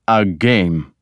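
mild appeal to a lord. A narrator's reading. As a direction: make light of it, appealingly. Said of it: "Kjartan appealed to Ragnar".

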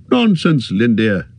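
a mild, scoffing snort of a retort; snorted dismissal. Acted. Bilbo waving off the elf's teasing with a mild scoff. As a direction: brush him off with a light scoff. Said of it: "snorted Bilbo".

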